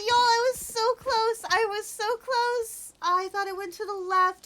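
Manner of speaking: frustrated lament. Real, not acted. Lamenting the near miss.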